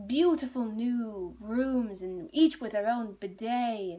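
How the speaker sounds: slow, drawn-out mock sales pitch; boastful sales pitch. Innkeepers show off the new inn, boasting. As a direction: sell it slowly, savouring each feature.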